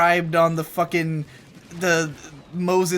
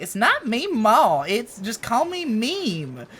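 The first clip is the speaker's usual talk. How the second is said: slow, higher Southern grandma correction; Southern accent; 5 semitones higher, slower than usual. Retold or imitated. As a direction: mimic a Southern grandma insisting. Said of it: "She has, like, a really thick Southern accent".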